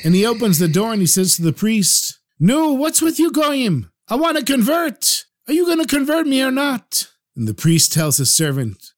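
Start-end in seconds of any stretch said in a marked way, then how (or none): 2.4-7.1 high, impatient demand; agitated rabbi. Acted. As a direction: press the priest, fed up with waiting. Rabbi demanding conversion from priest.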